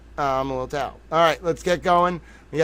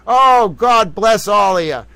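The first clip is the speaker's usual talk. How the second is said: slow, loud, higher gushing blessing; overjoyed; 4 semitones higher, 8 dB louder, slower than usual. Real, not acted. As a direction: pour out delight. Overjoyed at the document.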